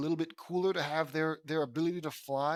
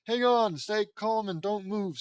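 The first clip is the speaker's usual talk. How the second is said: raised, higher rescuer's call; 5 semitones higher, 5 dB louder than usual. Acted. Tara to girl sinking in quicksand, calling out. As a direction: call urgent instructions across a room.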